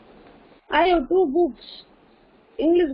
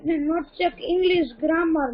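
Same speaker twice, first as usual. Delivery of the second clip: near tears; slower than usual. Real, not acted. Student complaining, cry heard.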